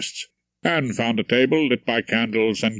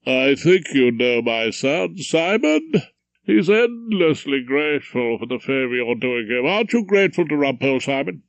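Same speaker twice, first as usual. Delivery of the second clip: a hint of a condescending father; proud old judge showing off his son; lightly voiced pompous judge; 2 semitones higher than usual. Judge presents his son to Rumpole, mildly pompous.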